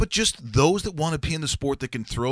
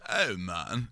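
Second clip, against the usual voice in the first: lightly imitated Austin Powers-style British drawl; a singer, Austin Powers-like; 3 semitones lower than usual. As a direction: mimic a British singer, a little Austin Powers. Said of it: "it's a little, uh, Austin Powers-like".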